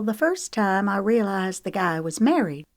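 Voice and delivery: hushed, breathless whisper; whispered confession. Acted. She confides to him about the married guy, whispering. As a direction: let it slip out in a whisper.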